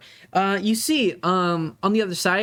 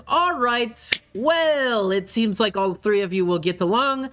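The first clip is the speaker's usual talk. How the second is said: higher-pitched, put-on dad voice; father sending off adventurers; 4 semitones higher than usual. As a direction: wrap it up briskly and send them off, with hesitations. GM plays the father.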